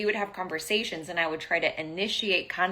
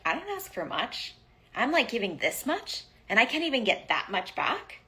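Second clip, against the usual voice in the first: higher, mock-exasperated complaint; exasperated inner voice; 4 semitones higher than usual. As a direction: whine it like a fed-up partner. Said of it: "I kept saying that language over and over".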